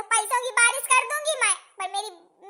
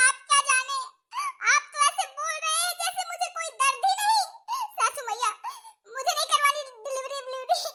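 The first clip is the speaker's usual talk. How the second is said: tearful refusal; 2 semitones higher than usual. Acted. Patient crying refuses delivery.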